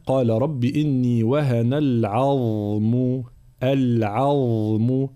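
slow chanted recitation; slow melodic Quranic chant. Shown as a demonstration. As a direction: recite slowly in tajwid style. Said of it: "العظم هكذا".

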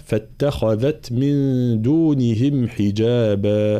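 slow chanted tajweed recitation; slow Quran chant; Quranic recitation. Shown as a demonstration. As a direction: recite it measured and melodic.

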